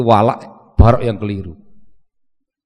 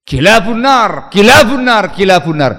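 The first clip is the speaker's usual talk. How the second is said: proclaimed verdict; 4 semitones higher, 5 dB louder than usual. Acted. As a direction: announce it as the law. Preacher proclaims the hadith again.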